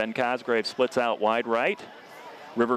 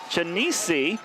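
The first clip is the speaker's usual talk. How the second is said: bad Italian accent; 6 semitones higher than usual. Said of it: "Is that your best Italian accent".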